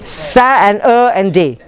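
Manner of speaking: "Sa", "er", "day" shown as separate parts; each piece "Sa", "er", "day" set apart; syllable breakdown. Shown as a demonstration. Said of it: "the British would say as".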